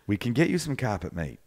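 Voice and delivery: put-on rough New Zealand accent, nearly Aussie; attempted Kiwi accent. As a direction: play along in a mock Kiwi accent. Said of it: "I can't do the Kiwi accent".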